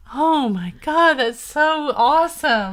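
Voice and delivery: high, slow mock gushing; hammed-up high-pitched fangirl; gushing girlfriends. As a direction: imitate swooning friends, stretching every word. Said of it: "all her little friends are like".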